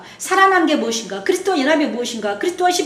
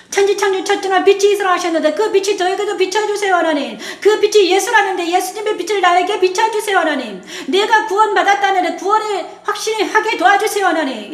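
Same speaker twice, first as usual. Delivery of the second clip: higher, pleading prayer voice; earnest prayer; 4 semitones higher than usual. Shown as a demonstration. Pastor models a scripture prayer, pleading and raised. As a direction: lift each plea up to God. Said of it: "말씀으로 기도하시기 바랍니다".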